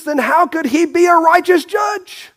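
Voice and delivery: high, shouted rhetorical question; preaching shout. Real, not acted. Preacher challenging the congregation, shouting high. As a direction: cry it out to the church.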